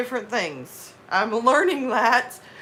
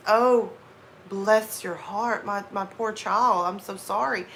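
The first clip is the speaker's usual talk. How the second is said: slow, sincere Southern sympathy; completely serious; slower than usual. Shown as a demonstration. Looking at a poor child, completely serious sympathy. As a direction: comfort them earnestly, taking your time. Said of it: "be completely serious".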